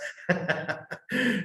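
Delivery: a short real chuckle from the pulpit; light high chuckle; warm laugh. Real, not acted. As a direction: laugh at your own remark. Preacher laughs at own joke.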